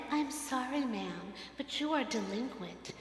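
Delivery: a hint of a bored collections clerk reading policy; flat phone agent. Collections agent telling the pastor she's delinquent, lightly voiced. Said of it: "the person on the phone is saying".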